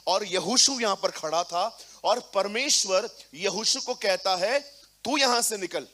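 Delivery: loud, driving sermon delivery; preaching at full force. Acted. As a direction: fire up the congregation. Preaching to congregation.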